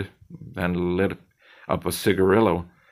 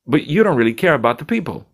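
higher, pushy bartender lecturing his friend; cocky bartender Zed; 6 semitones higher than usual. Acted. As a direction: needle him like the slick bartender.

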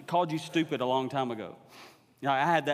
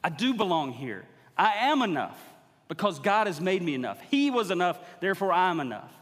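bold affirmation; 3 semitones higher, 4 dB louder than usual. Shown as a demonstration. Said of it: "Look in the mirror and go".

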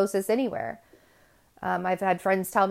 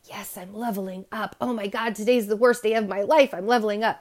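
mock celebration; 3 semitones higher than usual. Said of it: "you don't have to celebrate your worst days and be like".

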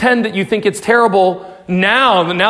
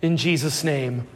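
closing prayer; 4 semitones lower than usual. Acted.

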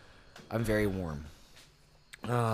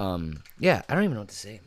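mouth on fire. Real, not acted. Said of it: "my mouth is on fire".

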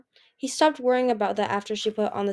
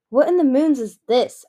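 higher, louder puzzled question; baffled exclamation; 4 semitones higher, 9 dB louder than usual. A narrator's reading. Anemone finding an odd device, baffled outburst.

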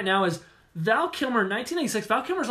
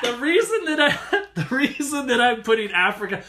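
laughing; 4 semitones higher than usual. Real, not acted.

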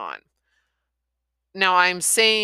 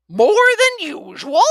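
high, slow, incredulous protest; indignant disbelief; 13 dB louder than usual. Acted. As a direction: scoff at it in disbelief. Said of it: "Pole expostulated".

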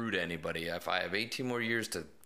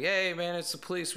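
calling out; 10 semitones higher, 3 dB louder than usual. Retold or imitated. Officer calling through door.

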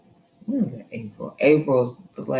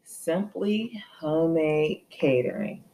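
talking like they're deaf; 5 semitones higher, 3 dB louder than usual. Real, not acted. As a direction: spell it out word by word, rising higher at the end. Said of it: "You talking like they deaf".

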